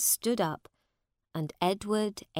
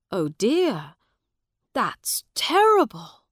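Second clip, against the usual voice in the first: kindly sympathy; 4 semitones higher, 7 dB louder than usual. A narrator's reading. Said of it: "said Miles kindly".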